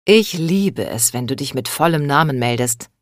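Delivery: flattering, with a hint of American accent. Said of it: "mit amerikanischem Akzent".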